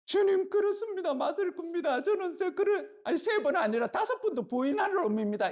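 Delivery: high, eager boasting with a laugh; Peter's boast. Retold or imitated. Peter boasting to Jesus, high and eager. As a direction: puff up like a cocky disciple.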